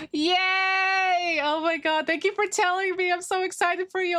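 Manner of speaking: high, bright yay for a viewer; cheering a viewer who starts Yakuza, high; excited cheer. Real, not acted. Cheering for chat news.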